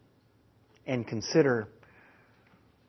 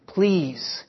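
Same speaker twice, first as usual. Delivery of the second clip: wailing plea; 3 semitones higher than usual. Acted. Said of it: "he wailed in a hoarse voice".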